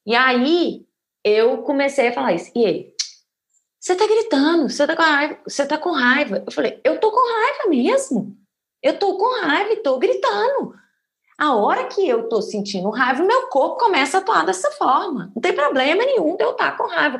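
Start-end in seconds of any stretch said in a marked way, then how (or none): 3.8-6.4 higher-pitched retold accusation; lightly acted partner pointing out the anger; companion's accusation. Woman quoting her companion mid-argument, mildly acted accusation. 6.8-17.2 high-pitched, insistent mock anger; retold angry outburst. Woman replaying her retort to her companion, angry and defiant. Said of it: "eu tava com raiva e comecei a falar mais alto".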